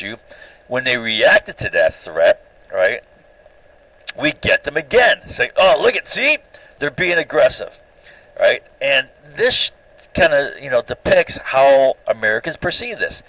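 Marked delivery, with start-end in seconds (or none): 5.6-7.8 high, sarcastic mock alarm; mock the finger-pointers, high and snide; sarcastic high mock outrage; mocking accusation.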